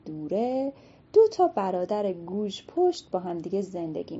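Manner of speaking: storyteller opening the tale; storybook narration. A narrator's reading. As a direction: tell it to children at bedtime.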